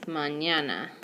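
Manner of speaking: MAÑANA with "ny" in the middle, ma-NYA-na. Shown as a demonstration. Teacher showing students how ñ sounds in "mañana", as ny. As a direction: run N and Y together in "mañana". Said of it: "putting an N and a Y together".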